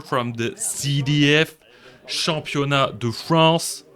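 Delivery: hammed-up French accent on the English intro; fake French accent. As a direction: lay on a mock French accent for the welcome. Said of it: "the fake Fre-, French accent".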